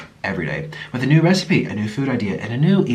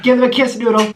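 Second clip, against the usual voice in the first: pet-talk voice; 10 semitones higher, 3 dB louder than usual. Real, not acted. Coaxing the sloth.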